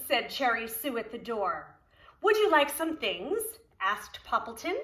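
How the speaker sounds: lively, sing-song storybook reading; reading to children. Acted. Preschool teacher reading Poppleton to children, storybook voice. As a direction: read it aloud to the preschool class. Reads picture book aloud.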